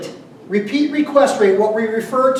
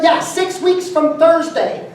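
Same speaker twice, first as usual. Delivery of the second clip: slow drawn-out reply; 7 semitones higher, slower than usual. Retold or imitated. Barber offers far-off slot.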